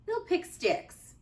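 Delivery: bright high teacher; lightly voiced teacher calling to the class. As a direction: sing it out like a cheerful teacher. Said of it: "said Missus Wimpy Dimple".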